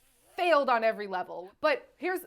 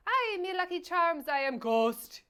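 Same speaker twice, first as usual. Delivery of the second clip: mock Irish Walken; 4 semitones higher than usual. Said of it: "So it would just be like".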